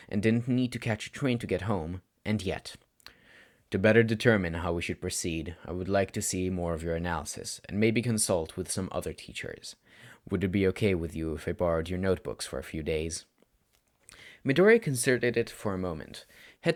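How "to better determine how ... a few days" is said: a weary mentor laying it out calmly; stern tired teacher. Acted. Teacher Shota speaks to student.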